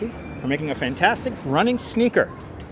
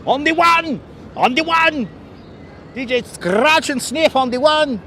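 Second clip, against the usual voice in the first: hype announcer; 7 semitones higher than usual. Pretend. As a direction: hype the crowd like a DJ MC.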